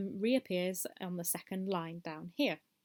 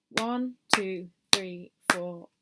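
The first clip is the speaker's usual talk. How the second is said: even, louder crotchet count; steady count; 4 dB louder, much slower than usual. Shown as a demonstration. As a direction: count the four beats evenly. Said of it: "It sounds like this".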